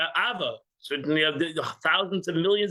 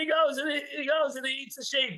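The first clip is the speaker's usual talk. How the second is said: emphatic; 7 semitones higher than usual. Real, not acted. Emphatic lion point.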